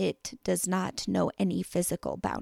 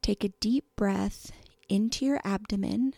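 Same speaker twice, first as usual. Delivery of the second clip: calm, measured meditation voice with long pauses; unhurried guiding, leaving room to breathe between phrases; guided meditation; 4 dB quieter than usual. Real, not acted. Host leading listeners through a body scan, calm meditation voice.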